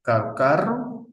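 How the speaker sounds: CARRO first with a tapped R, then trilled; R contrast. Shown as a demonstration. Teacher showing single and double R, CARRO tapped then trilled. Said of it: "La R simple, la R doble".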